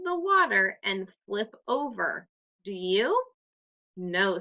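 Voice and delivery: put-on clear, expressive read-aloud for children; story narration. A narrator's reading. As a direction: read the story to the class with lively voices. Teacher reads story aloud.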